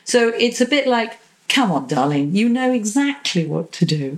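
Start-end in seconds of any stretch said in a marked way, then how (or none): 1.5-4.2 coaxing with a smile. Shown as a demonstration. Parent kindly coaxing child to load dishwasher, smiling. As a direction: gently coax the child, smiling as you speak. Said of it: "There's a smile in my voice".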